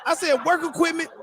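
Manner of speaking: high, laughing correction; cracking up while setting the record straight; laughing in disbelief. Real, not acted. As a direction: laugh through the words at the mixup. Correcting the wallet mixup.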